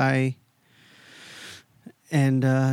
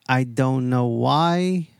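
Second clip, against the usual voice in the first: slow, dry self-deprecating; deadpan joke; slower than usual. Pretend. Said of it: "I'm just kidding".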